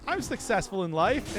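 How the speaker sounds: retold hopeful boast, high on "see"; imitating eager self-justification. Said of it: "it's just like".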